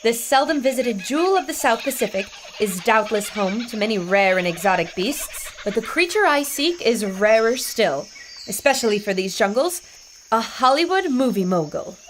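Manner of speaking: wry documentary-style narration; recording a memoir; dictated narration. Acted. Laura dictating her jungle journey into a recorder, wry narration.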